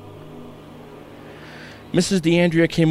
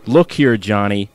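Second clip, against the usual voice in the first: raised voice; 2 semitones higher than usual. Acted. Father laying down the law to his son, stern raised voice. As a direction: put your foot down with the boy. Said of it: "found himself raising his voice".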